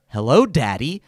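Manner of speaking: a hint of automated phone robot. Retelling the creepy phone greeting in a lightly put-on robot voice. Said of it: "like, a robot voice going".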